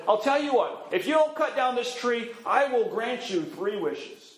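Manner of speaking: lightly voiced elf striking a bargain. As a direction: tempt him with the offer.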